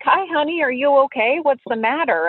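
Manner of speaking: a hint of a gentle grandma checking on a lost child; sweet old lady voice.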